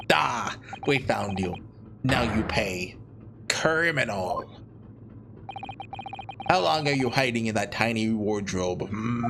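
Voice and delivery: put-on amateur Russian interrogator accent. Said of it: "Oh, Russian guy".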